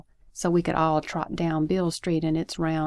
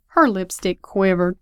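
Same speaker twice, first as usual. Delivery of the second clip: louder, savoring repeat of a phrase; admiring echo, pushed louder; relishing echo; 5 dB louder than usual. Acted. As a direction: repeat it with emphatic delight. Listener delightedly echoes the line.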